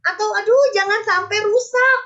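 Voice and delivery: mock worried. Acted worried inner voice.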